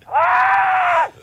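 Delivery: high drawn-out scream; last scream. Acted. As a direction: let out a long, high wail. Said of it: "Last thing she said was".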